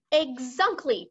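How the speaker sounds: mild cry of agreement. Acted. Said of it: "cried the B F G".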